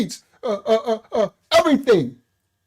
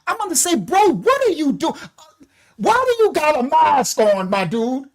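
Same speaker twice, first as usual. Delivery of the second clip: higher, mock-baffled question; incredulous; 5 semitones higher than usual. Ranting about a masked man in the street, higher and baffled. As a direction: ask a masked stranger in disbelief. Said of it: "I said".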